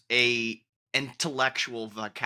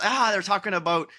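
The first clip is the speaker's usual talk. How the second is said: Mrs Brown quote; 3 semitones higher than usual. Retold or imitated. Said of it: "she comes and says".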